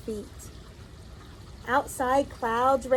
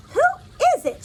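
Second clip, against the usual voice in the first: calling out; 7 dB louder, much faster than usual. Acted. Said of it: "she called".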